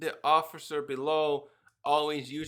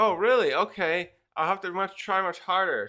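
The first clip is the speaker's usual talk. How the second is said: higher, louder eager voice; eager kid; 3 semitones higher, 5 dB louder than usual. Acted. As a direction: resolve it brightly. Boy resolving to try.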